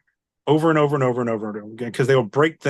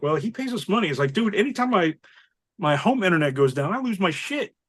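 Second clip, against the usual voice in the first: higher-pitched pleading-the-case quote; animated retelling; 6 semitones higher than usual. Retold or imitated. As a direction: argue the customer's side, voice jumping up. Acted reply to coworkers about an angry customer.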